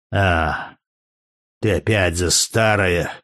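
low, slow, threatening growl of a German warrior; a hollow threat from deep in the chest; low menacing voice. A narrator's reading. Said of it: "произнёс германец глухим, угрожающим голосом". (глухой угрожающий голос)

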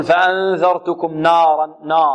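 نارا with the نون made heavy and dark, the faulty way; heavy نون demo. Shown as a demonstration. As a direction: show the error of darkening the نون in نارا. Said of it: "البعض يفخم يقول".

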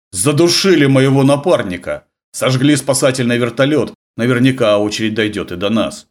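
loud panicked outburst; frightened, urgent cry. Acted. Marine panics about the killings.

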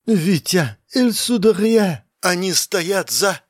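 high, slow frightened voice; drawn-out high French, then Russian; panicking. Acted. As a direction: plead with him in fear. Panicking girl cut off mid-sentence.

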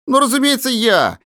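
high amused answer; cheerful. A narrator's reading. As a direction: answer with glee. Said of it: "в весёлое настроение". (весело)

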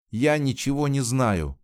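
put-on a girl's sudden desperate cry; cried out. A narrator's reading. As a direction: burst out in desperation. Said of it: "вскрикнула Жанна".

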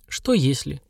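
ровно и тише, без нажима; спроси спокойно, выжидая. Acted. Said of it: "спокойно спросила Надиена". (спокойно спрашивает пьяную бабу)

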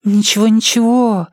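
high soothing purr of a gossip friend. Acted. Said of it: "мурлыкала Ирен".

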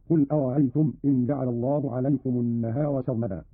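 no full catch after the r in "أرأيتم"; softened second hamza. Shown as a demonstration. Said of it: "بتسهيل الهمزة الثانية هكذا". (تسهيل الهمزة الثانية في "أرأيتم")

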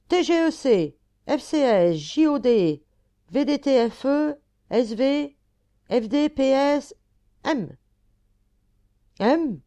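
high, loud angry volley of letters; red-faced angry retort. Acted. Red-faced cab driver answers back in a heated street argument, angry. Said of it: "rouge de colère, répondait".

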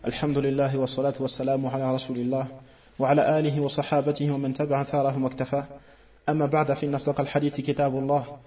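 brisk, fluent Arabic recitation; fast formal Arabic sermon opening; recited opening formula. Real, not acted. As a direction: recite the opening praise rapidly, by rote.

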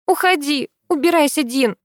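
barking at him. A narrator's reading. Girl ordering the boy to leave, angry bark. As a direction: drive him away with a bark. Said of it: "рявкает она".

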